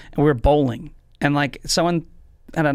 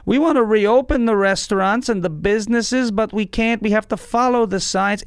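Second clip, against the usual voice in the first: slow, drawn-out New York governor; Andrew Cuomo; slower than usual. Acted. Governor explaining closures to New Yorkers, slow impression. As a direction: stretch the vowels in a weird politician's accent. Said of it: "He's so slow".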